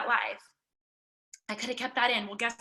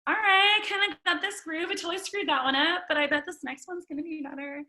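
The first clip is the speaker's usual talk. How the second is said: upbeat self-encouragement, higher and pepped up; growing confidence; 5 semitones higher than usual. Retold or imitated. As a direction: sound like you just found your groove. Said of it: "that's going to get you".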